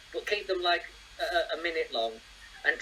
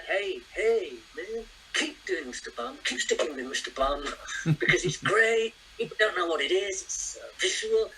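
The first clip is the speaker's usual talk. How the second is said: a light, half-hearted rock star voice, barely shifted from his own; bad rock star impression. Host mimics the rock star encouraging him, lightly put-on voice. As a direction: lazily mimic a laid-back rock star. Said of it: "worst rock star impersonation ever".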